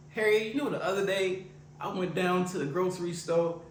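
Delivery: playing old Marvin. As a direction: tell it like an outraged old neighbor. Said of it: "why don't you just get into a character".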